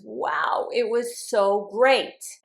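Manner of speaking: demonstrated wonder, slow and admiring; amazed exclamation. Acted. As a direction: act out being impressed, slowing on "so great". Acts out amazement at a concert.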